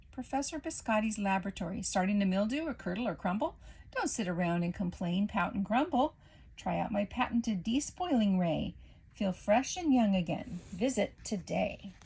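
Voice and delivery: fast upbeat commercial pitch; ad read. Acted. Professor Biscotti's ad pitching her despoiling ray to stale food. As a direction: sell it like a radio ad.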